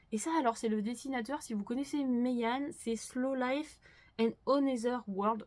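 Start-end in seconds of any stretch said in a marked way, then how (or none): 3.0-5.4 French-accented English. Real, not acted. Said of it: "Je suis désolée pour mon accent".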